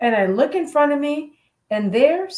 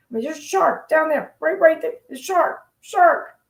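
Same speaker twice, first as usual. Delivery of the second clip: pointing it out, getting more urgent; insistent instructor; 4 semitones higher than usual. Retold or imitated. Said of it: "He's going".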